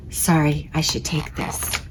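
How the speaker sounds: hushed, turned away; whispered aside. Acted. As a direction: whisper it as you step off to take the call. Aside before phone call.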